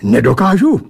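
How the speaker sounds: affronted, rising retort; indignant protest. Acted. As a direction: bristle at the challenge. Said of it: "ohradil jsem se".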